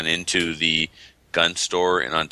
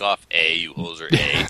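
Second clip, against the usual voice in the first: put-on butchered Canadian accent. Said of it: "You butchered that. Awful".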